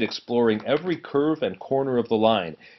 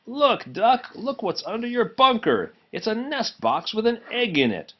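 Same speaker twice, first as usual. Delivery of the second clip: higher, laughing crew members; a hint of amused railwaymen; teasing crew voice; 11 semitones higher than usual.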